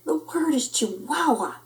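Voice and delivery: high, strained motherly correction; frazzled mama. A narrator's reading.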